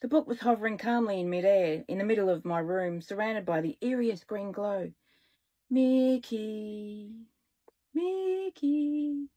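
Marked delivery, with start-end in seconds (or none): 5.7-9.3 eerie drawn-out calling; ghostly voice. A narrator's reading. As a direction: call out like a haunting spirit. Eerie voice from the book.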